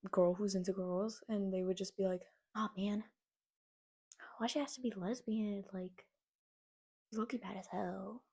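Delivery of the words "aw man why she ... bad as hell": imitating tough kids. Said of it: "I'm talking like this because this is how they talk".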